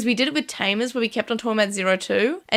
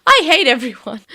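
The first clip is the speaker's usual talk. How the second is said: Daisuke; 3 semitones higher, 8 dB louder than usual. Retold or imitated. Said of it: "Daisuke is like".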